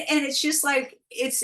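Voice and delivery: normal talking voice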